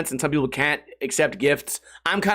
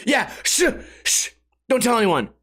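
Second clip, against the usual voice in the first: furtive hushing; 5 semitones higher than usual. Retold or imitated. Winner hushing him, acted.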